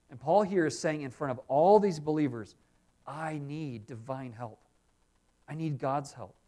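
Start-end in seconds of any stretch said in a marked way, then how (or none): 3.1-6.4 humble plea. Retold or imitated. Paul confessing need for help.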